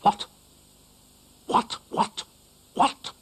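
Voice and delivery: dog finds his scarf ruined, outraged; alarmed. Acted. Dougal discovers his eaten scarf.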